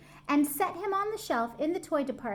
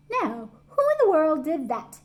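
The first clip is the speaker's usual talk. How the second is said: louder, gruff watchman; exclaimed; 4 semitones higher, 6 dB louder than usual. A narrator's reading. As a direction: call out into the dark store. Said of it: "he exclaimed".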